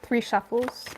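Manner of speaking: talking through a yawn. Real, not acted. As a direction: say it mid-yawn. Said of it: "Why am I yawning?".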